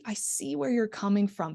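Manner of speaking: sense word "see" emphasized, sincere; emphasis on SEE. Shown as a demonstration. Instructor modelling empathy to a patient, stressing "see". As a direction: lean on the word "see" to show understanding. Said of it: "So really emphasize the senses".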